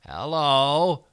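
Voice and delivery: scratchy alien hello. Acted. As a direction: rasp it like a hidden creature. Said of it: "said a scratchy voice".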